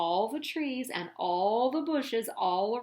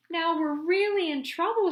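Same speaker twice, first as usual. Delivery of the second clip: higher, louder worried shout; 7 semitones higher, 6 dB louder than usual. A narrator's reading. Papa Grunt shouting as lava comes, worried. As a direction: bellow the bad news. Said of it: "shouted Papa Grunt".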